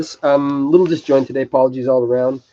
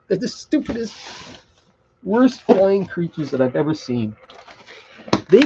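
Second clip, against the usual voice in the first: laughing, pitched up high; 8 semitones higher than usual. Real, not acted. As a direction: laugh through the rerun of the line. Laughs while repeating the rant.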